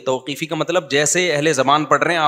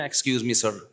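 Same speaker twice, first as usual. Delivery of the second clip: soft, courteous excuse me; soft polite English aside; polite interruption; 3 semitones lower, 6 dB quieter, much slower than usual. Shown as a demonstration. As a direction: gently correct someone. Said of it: "آپ یوں کر کے نا".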